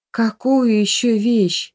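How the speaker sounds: slow, weary question; tired. A narrator's reading. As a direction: sigh the question, worn out. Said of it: "устало произнесла Галя". (устало, медленно)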